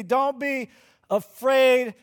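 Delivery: called out. Retold or imitated. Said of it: "But he doesn't just say".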